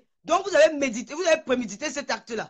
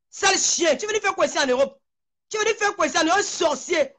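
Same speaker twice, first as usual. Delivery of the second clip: furious rant; 3 semitones higher than usual. Real, not acted. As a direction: hurl the insults in real fury. (fureur, insultes criées plus aiguës)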